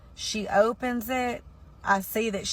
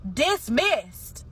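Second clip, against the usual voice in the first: a sharp, higher one-word brush-off; curt judge's dismissal; 6 semitones higher than usual. Retold or imitated. Judge cutting her off mid-plea, curt and dismissive. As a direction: snap it shut like a bored judge.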